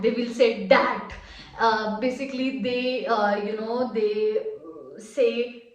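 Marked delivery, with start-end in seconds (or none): 0.7-1.1 "dat" with a hard D, no th sound. Shown as a demonstration. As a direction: say "dat", D not th. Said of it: "they will not say that".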